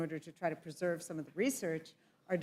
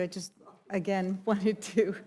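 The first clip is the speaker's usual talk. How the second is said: laughing through the words; 3 semitones higher, 6 dB louder than usual. Real, not acted. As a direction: chuckle while you speak. Chair laughs at the long session.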